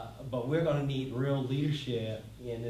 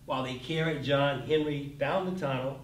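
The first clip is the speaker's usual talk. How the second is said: poem reading. Acted. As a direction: read it like a folk ballad, steady and deliberate. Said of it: "read the following stanza".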